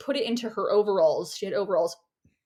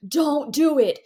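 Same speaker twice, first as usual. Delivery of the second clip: higher, louder, frantic rush; a wild woman's urgent plea, higher and louder; frantic note; 5 semitones higher, 4 dB louder than usual. Retold or imitated. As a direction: read it like a panicked warning scrawl. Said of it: "the ramblings of a wild woman".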